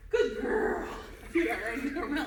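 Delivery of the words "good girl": high, loud, delighted praise; happy praise voice. Real, not acted. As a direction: gush over the dog. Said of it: "Happy voice".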